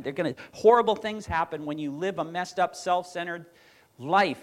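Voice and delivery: a light take on Peterson driving the point home; imitating Jordan Peterson. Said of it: "that's how he talks".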